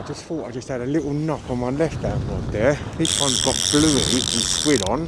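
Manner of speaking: muffled through a balaclava. Real, not acted. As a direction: talk with the mouth covered by cloth. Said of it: "Excuse the muffled voice".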